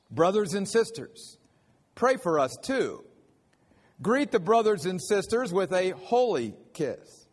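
measured, lightly formal Bible reading; scripture reading. Acted. Reads the scripture passage aloud.

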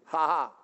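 low, spoken "ha ha"; a deliberate, put-on little laugh; mock laugh. Shown as a demonstration. Preacher inviting the congregation to gloat, mock laugh. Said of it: "Can you go, "Ha ha".

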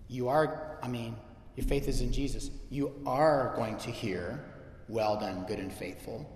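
low, soft, halting comfort; softly spoken pastoral reassurance; retold gentle reassurance. Retold reassurance to crying woman.

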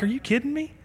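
high-pitched mock disbelief; a hint of surprised disbelief. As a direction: act amazed, half joking. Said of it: "I'm like".

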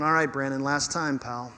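low grudging warning, fading away; reluctant. Acted. God imagined letting Brandon off one last time, reluctant. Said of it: "He isn't reluctant".

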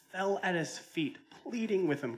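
dramatized retelling of a plea; dramatic pleading emphasis. Retold or imitated. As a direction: stretch it out high, dwelling on each phrase.

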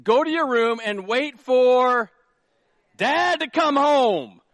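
slow, high and loud stern mom; mom's stern threat. Retold or imitated. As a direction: drag it out like a mother promising trouble. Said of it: "She would say".

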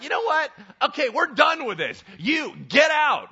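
irritated command. Retold or imitated. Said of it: "irritated enough to be like".

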